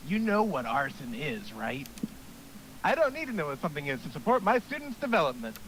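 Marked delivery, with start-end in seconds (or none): 2.8-5.6 lightly raised coach voice; eager gym coach pep talk; hearty coach voice. Acted. Coach voice continues.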